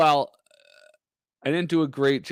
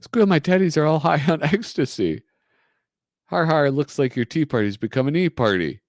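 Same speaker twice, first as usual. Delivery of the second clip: gleeful comic villain; 6 semitones higher, 4 dB louder than usual. Acted. Comic character gloating loudly.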